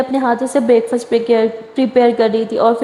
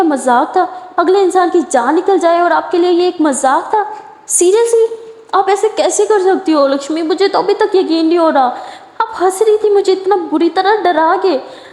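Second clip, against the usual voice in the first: higher, hurt and outraged; higher, wounded anger at her partner's prank; indignant; 5 semitones higher than usual. Acted. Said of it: "लिली गुस्से से यूँ लक्ष्मी को घूरती है".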